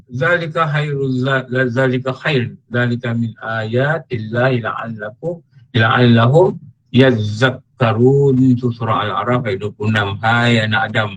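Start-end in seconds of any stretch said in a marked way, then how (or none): 0.1-8.4 slow, measured chanting of the Arabic verse; slow Quranic chant; Quran recitation. Acted. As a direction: intone the verse slowly and reverently.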